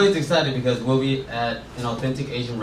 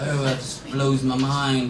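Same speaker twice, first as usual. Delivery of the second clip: mock English-Australian accent; slower than usual. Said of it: "the accent you were doing was clearly Australian".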